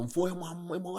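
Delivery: ordinary talk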